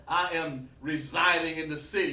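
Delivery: over-formal wording, hammed up; mock a stilted, proper way of talking; mock stiff formality. Shown as a demonstration. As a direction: put on formal speech as a joke. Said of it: "black people don't talk like that".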